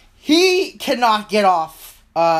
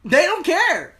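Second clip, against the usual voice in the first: dismissive; 10 semitones higher than usual. Acted. GM dismissive monkey voice.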